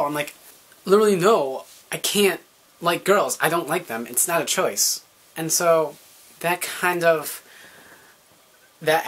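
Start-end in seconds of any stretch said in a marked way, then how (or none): 0.8-5.0 louder, higher insistent arguing; heated protest. Retold or imitated. Arguing with his stepdad that being gay is not a phase, a loud insistent protest. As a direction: push back hard and frustrated.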